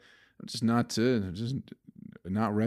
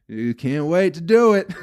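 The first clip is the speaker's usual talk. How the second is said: loud, high, breaking into laughter; gleeful; 7 semitones higher, 9 dB louder than usual. Real, not acted. Podcaster vowing to show the industry, loud laughing glee. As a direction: burst out laughing as you finish.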